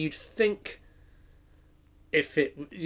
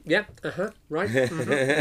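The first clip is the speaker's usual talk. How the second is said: polite listener noises; 2 semitones higher, slower than usual. Retold or imitated. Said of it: "I do a lot of going".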